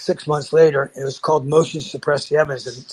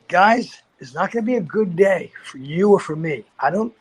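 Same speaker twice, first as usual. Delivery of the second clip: firm warning; 4 semitones higher than usual. Retold or imitated. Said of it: "I just said".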